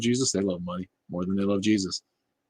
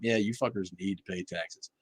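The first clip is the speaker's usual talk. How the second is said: ordinary talk, nothing marked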